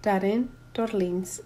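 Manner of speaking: names said in a light Haitian accent. Shown as a demonstration. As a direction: put a touch of Haitian accent on the name. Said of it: "in my Haitian accent".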